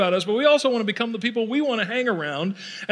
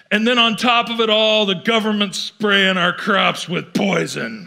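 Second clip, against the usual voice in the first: doom complainer. Retold or imitated. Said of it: "global things that we can be pessimistic about".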